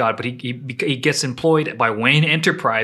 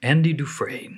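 gravelly voice; 4 dB quieter than usual. Shown as a demonstration. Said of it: "It's that gravelly voice".

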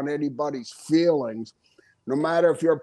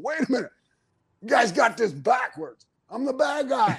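mock protest; 5 semitones higher than usual. Acts protest to cheering crowd.

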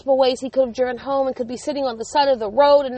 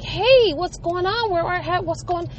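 higher-pitched retold flustered greeting; frantic questioning; 5 semitones higher than usual. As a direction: fire questions at your son, reenacting worry. Frantic mother confronts her son.

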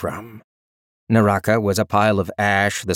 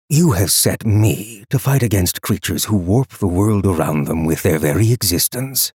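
cold rasping evil emperor. Acted. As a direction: speak down with icy disdain. The Emperor speaking to captors.

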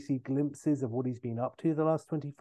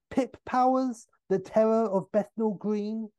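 Austin; 9 semitones higher, 4 dB louder than usual. Retold or imitated. Austin guessing brothers, pitched high.

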